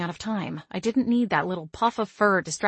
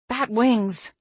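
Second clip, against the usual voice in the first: growled curse; 4 semitones higher than usual. Acted. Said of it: "I growled".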